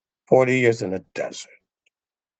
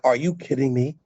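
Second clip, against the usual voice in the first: king's outraged rebuke; 12 semitones higher than usual. Retold or imitated. King rebuking the forgiven servant, outraged shout. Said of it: "he's like".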